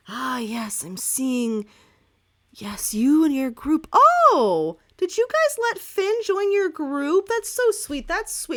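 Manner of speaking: rising from mystic to high, loud gushing; fortune teller voice. Acted. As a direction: seer who breaks into delight. Fortune teller sees the future.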